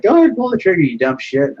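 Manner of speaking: high-pitched mock dare, easing down; retold defiant dare. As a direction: imitate a bus driver calling the bluff. Acting out defiant bus driver.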